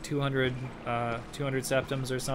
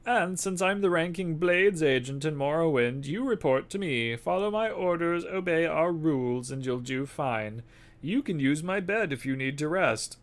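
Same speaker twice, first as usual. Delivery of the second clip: put-on louder, raised old spy boss; spymaster voice; 4 semitones higher, 4 dB louder than usual. Spymaster asking the courier for the package, gruff. Reads NPC dialogue in character.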